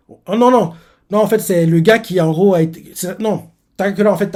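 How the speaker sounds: surprise réelle. Real, not acted. Se corrige, étonné.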